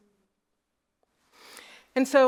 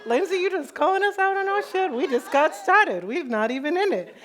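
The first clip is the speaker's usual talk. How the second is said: high, loud, exaggerated indignation; mock protesting audience; 10 semitones higher, 5 dB louder than usual. Audience member objecting to being called out, mock indignant. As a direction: squeal it as a playful complaint.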